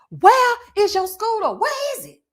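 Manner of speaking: high, slow mocking demand; imitating Nene. Imitating Nene taunting Kim, high and mocking. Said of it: "had the best read".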